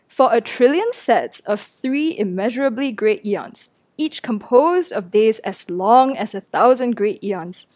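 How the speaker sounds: slow, deliberate reading; reading aloud slowly. Shown as a demonstration. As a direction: read each phrase slowly. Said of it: "I'm gonna read it slowly".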